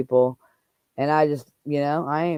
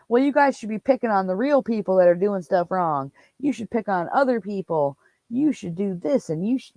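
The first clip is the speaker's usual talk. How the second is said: higher-pitched imitation of a droning lecturer; mock mumbling on; 4 semitones higher than usual. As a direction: mimic someone going on and on with advice. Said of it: "goes on and mumbles on and on".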